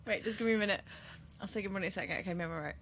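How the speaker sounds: holding back a sneeze; quiet, fighting off a sneeze; about to sneeze. Real, not acted. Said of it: "Sorry, I'm gonna sneeze".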